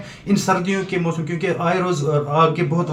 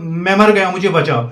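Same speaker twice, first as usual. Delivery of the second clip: a mild mock cry for help, a bit louder; retold cry for help; 5 dB louder than usual. Son retelling how father cried out from fire, mild mock cry for help. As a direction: retell his father's cry from the fire, only half voiced. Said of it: "تو اس کو آواز نکلی".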